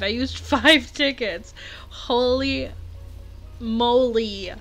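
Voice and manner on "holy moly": giddy gush, climbing much higher; real excitement. Real, not acted. Player picturing new villager's little house, real excitement. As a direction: draw out the first line, then gush up high. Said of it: "I'm so excited".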